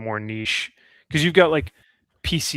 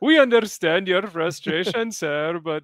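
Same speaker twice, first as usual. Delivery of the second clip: customer service voice; 5 semitones higher than usual. Pretend. Mock scripted support line.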